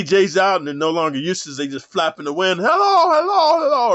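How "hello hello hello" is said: mock airhead greeting. Mocking women who flap around.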